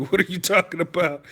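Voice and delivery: laughing disbelief. Real, not acted. Laughs at absurd comment.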